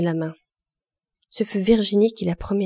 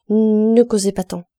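stammering; 2 semitones higher, 7 dB louder than usual. Acted. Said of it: "bégaya Gervaise".

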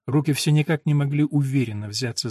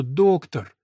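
pleading; 2 semitones higher, 4 dB louder than usual. Acted. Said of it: "умоляла Элинор".

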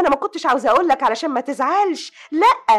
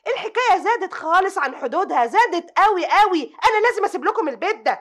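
raised, rising pitch, pressing the complaint; higher and louder, she's had enough; heated outburst; 6 semitones higher, 4 dB louder than usual. Acted. Sister to her brother, threatening to leave: heated.

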